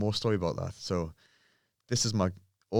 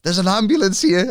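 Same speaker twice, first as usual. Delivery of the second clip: much higher, louder urgent news; alarmed gym owner; 12 semitones higher, 12 dB louder than usual. Retold or imitated. Gym owner reporting an ambulance, urgent and higher. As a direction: deliver it like a panicked owner. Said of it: "He goes".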